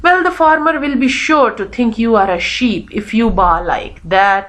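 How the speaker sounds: slow, expressive reading of dialogue; story read-aloud. Acted. Teacher reading Daisy's warning to Buttercup, storytelling. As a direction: read the warning out deliberately, easing down.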